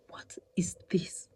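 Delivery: breathless hushed "what is this"; shocked whisper. Retold or imitated. Wife finding the broken cooker, whispering in shock. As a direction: whisper it in disbelief.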